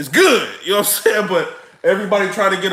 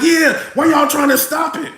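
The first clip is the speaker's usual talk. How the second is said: mock agreeing shout; 6 semitones higher than usual. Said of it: "I'm sitting here like".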